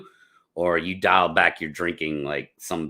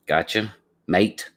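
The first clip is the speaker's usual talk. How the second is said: slow, playful mock English accent; lightly put-on English accent; 3 dB louder, slower than usual. Shown as a demonstration. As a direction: drawl it out like a Londoner. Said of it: "How you like my, uh, English accent?".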